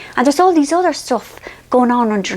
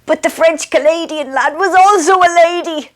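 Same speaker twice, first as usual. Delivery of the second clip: husband's confession; 7 semitones higher than usual. Retold or imitated.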